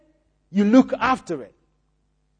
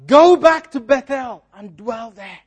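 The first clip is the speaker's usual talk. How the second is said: God calling Jacob; 2 semitones higher, 8 dB louder than usual. Retold or imitated. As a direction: call out his name from afar. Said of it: "He says".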